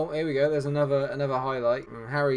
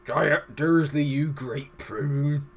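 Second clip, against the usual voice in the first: put-on gruff telling-off, slowing at the end; Hagrid; 3 dB louder, much slower than usual. Impressionist quoting the giant telling Dursley off, put-on voice. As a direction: drag out the insult in character. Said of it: "It's my Hagrid impression".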